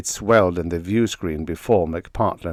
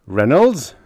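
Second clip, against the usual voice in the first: loud call of the name, pitched up; bellowed; 6 semitones higher, 6 dB louder than usual. A narrator's reading. Commander calling Reynolds, a loud bellow. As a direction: bellow across the control room. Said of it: "bellowed the commander".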